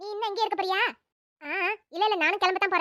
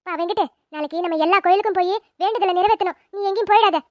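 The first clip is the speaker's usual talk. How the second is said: firm consoling; 6 dB louder than usual. Acted. Elder woman consoling family.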